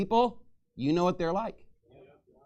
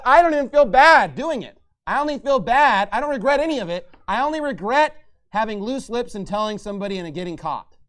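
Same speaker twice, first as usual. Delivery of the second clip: mock quote; 3 semitones higher, 6 dB louder than usual. Mocking quote of rival pastor.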